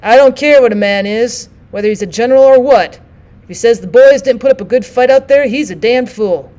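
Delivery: loud, firm and defiant; firm, undaunted. Acted. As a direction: stand your ground, loud and unafraid. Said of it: "spoke suddenly in firm and undaunted tones".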